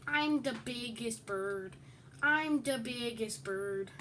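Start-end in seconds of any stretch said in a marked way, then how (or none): 2.2-3.9 drawn out a touch slower, teasing; slow sing-song taunt. Pretend. Gloating at the other player, slowly drawn out.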